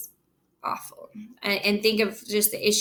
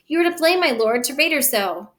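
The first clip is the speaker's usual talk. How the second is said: higher, louder nurse's protest; protective nurse; 4 semitones higher, 4 dB louder than usual. Acted. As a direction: stick up for the girl, pitched high. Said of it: "the nurse is trying to stick up for her".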